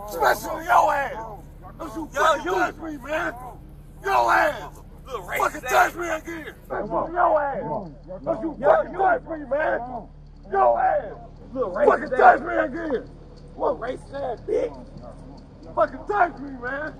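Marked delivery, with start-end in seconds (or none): 0.1-13.1 raw furious shouting; furious yelling. Real, not acted. Father yelling at officers. 13.5-15.7 slow whispered insult; muttered insult. Real, not acted. Muttered insult after shouting.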